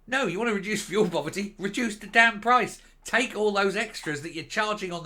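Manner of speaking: angry retort. Real, not acted. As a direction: bite out reduce the damn price. Rebutting the government quote.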